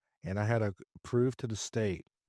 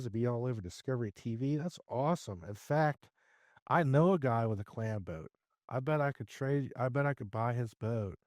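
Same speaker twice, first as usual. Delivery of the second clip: mock enthusiastic pitch; 4 semitones higher than usual. Hyping up seller's clam boat dream.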